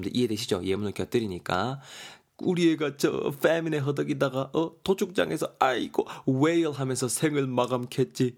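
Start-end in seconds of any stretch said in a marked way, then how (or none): 2.4-8.3 mock lament. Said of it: "이러고 있습니다".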